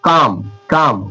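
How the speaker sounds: काम said slowly, no b after the m; silent b. Shown as a demonstration. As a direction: stretch काम out with the b dropped. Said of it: "तो इसे क्या पढ़ रहे हैं?". (धीरे से काम, बी साइलेंट)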